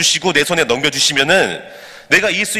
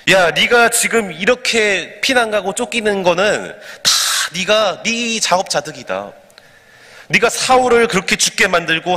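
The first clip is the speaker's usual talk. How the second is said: cursing accusation; 3 semitones higher than usual. Acted. Man cursing the fleeing king, mock accusing tirade. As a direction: lay the blame as if cursing, moderately heated. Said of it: "다윗을 보고 막 저주하고 욕을 하는 거예요".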